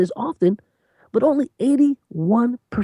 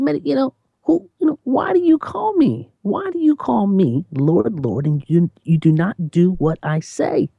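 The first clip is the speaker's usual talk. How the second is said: Jesus asking. Acted. Jesus's question voiced again.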